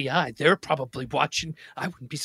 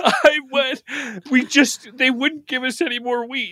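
whiny pleading; 6 semitones higher than usual. Acted. Husband pleads, high voice.

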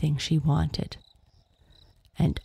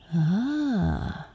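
smiling knowing ah; a fond knowing sound; knowing smile; 3 semitones higher than usual. Acted. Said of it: "her mother smiled".

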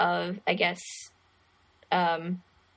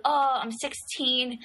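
put-on mildly excited girl, higher and drawn out; imitated excitement; 4 semitones higher, slower than usual. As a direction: lightly act out birthday excitement. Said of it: "Here she gets all excited".

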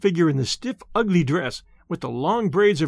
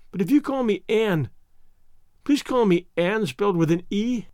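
a hint of a heartbroken child winding up to cry; distraught orphan girl. Anne explaining her name.

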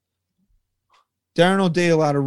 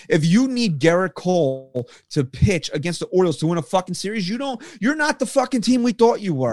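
real frustration. Real, not acted. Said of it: "I'm so fucking mad right now".

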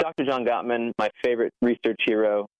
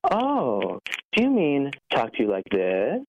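sarcastic; 3 semitones higher, slower than usual. Retold or imitated. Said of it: "with complete sarcasm".

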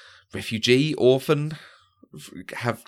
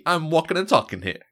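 higher, louder hammed-up New York accent, imitating Allison Janney; mock New York accent; 7 semitones higher, 4 dB louder than usual. Podcast host mocks Allison Janney's role in a New York accent. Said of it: "in New York accent".

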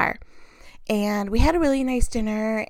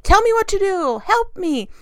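higher, louder mock plea; mock pleading; 9 semitones higher, 4 dB louder than usual. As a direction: beg the internet for help, half-joking. Begging Google for mouse advice.

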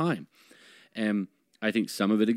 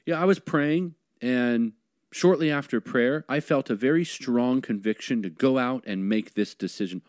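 mild mock believer; 3 semitones higher than usual. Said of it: "I wish is that some of them would just say".

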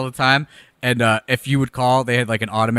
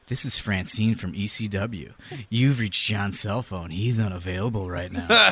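lower, slow, softer recorded message; slow voicemail greeting; 3 semitones lower, 4 dB quieter, slower than usual. Retold or imitated. Imitating Francine's voicemail greeting, slow and soft. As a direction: read it like a calm answering machine. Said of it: "It was like".

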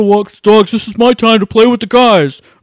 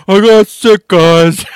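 laughing admission; 2 semitones lower, slower than usual. Real, not acted.

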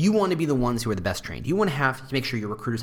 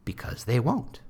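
ordinary talk

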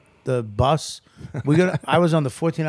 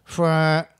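short mouth-made fart sound, pitched up a little; imitated fart noise; 3 semitones higher than usual. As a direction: mimic a fart letting rip. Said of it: "it was like".

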